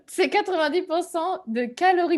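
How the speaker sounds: talking through food; words round a mouthful; mouth full. Retold or imitated. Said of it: "Alors qu'elle a encore la bouche pleine".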